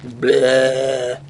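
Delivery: short slack-jawed zombie bleh; zombie groan. Acted. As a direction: groan it like the undead. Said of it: "my finest impression of a zombie".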